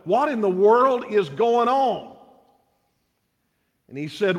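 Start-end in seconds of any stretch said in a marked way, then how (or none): 0.1-2.1 higher-pitched, lightly acted exasperated boss; mock wild agitation. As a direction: act a touch of bewildered agitation. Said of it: "his excitement is running wild".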